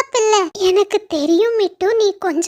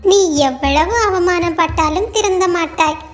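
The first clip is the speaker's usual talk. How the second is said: mocking. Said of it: "மறுபடியும் கிண்டல் செய்ய ஆரம்பிச்சது".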